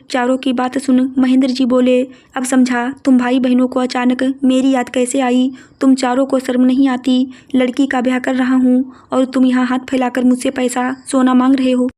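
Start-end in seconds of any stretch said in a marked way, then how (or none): 2.4-11.9 understated anger, rising at the end; a hint of an indignant father scolding; father scolding siblings begging for money, indignant; stern rebuke.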